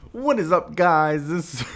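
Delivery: high, loud podcast greeting; mock show opener. Shown as a demonstration. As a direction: belt out an over-the-top hello to listeners. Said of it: "say it as if you're star".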